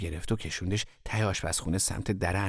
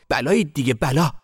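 high, loud exasperated outburst; exasperated scolding; 6 semitones higher, 8 dB louder than usual. A narrator's reading. Mother finding the children fighting, exasperated scolding. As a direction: scold with raised pitch and volume.

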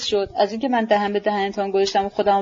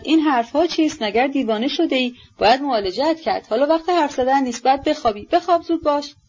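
mildly alarmed, higher-pitched urging; alarmed cry; 4 semitones higher than usual. Acted. Horrified woman orders sick youth to sleep, mildly alarmed cry. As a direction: cry out in alarm, without a full shout. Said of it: "با وحشت داد زد".

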